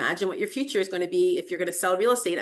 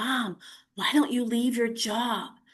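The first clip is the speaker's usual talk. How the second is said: whispered speech; 4 semitones higher than usual. Recalling lying in bed with her daughter and new grandson, retelling a whisper. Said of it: "she whispers".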